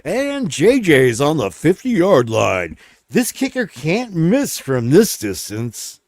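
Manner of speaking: slow, drawn-out sportscaster call; football announcer. Pretend. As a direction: call it like a play-by-play man. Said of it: "football announcers".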